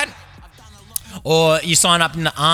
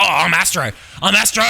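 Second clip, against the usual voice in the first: excited astronaut; 3 semitones higher than usual. Acted. Astronaut hearing Houston call him, mock excited. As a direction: realise it's you, pitch climbing. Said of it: "then you're like".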